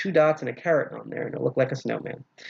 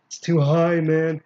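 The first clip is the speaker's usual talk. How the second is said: louder, frustrated outburst; exasperated; 3 semitones higher, 4 dB louder, slower than usual. Real, not acted. To the viewers while fumbling the lock, exasperated and louder. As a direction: blurt it out, annoyed. Tension wrench sits too high.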